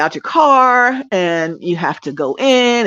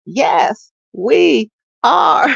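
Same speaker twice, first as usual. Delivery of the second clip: stiff cheer response; 8 semitones higher, much slower than usual. Pretend. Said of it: "Like I'm doing stick cheers".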